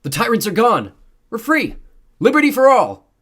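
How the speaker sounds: high, jubilant full shout; crowd shouting. A narrator's reading. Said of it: "people on the T V screen were shouting".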